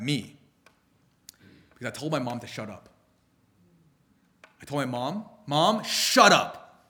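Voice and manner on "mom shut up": slow drawn-out sassy retort; rude child. Retold or imitated. Little boy telling his mom to shut up, slow and sassy. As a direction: drag it out, cheeky kid.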